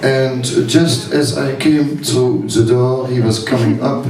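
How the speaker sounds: light put-on French accent while storytelling. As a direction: tell it with a hammy French accent. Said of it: "for the accent, uh, excusez-moi".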